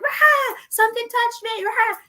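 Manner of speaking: very high shrieking panic; hammed-up frightened shriek; mock panic. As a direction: squeal like you've been grabbed. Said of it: "they're like".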